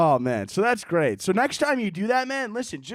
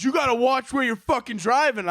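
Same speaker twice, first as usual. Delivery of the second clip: higher mock road-rage scolding; retold angry scolding; 4 semitones higher than usual. Angry driver scolding the comic, mock road rage. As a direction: imitate a driver telling someone off. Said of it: "He got so angry".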